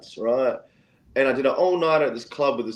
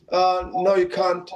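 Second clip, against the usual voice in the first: higher-pitched imitation French accent; shaky attempt at a French accent, pitched up; 6 semitones higher than usual. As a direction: imitate French police refusing, rough French accent. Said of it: "mind my French accent".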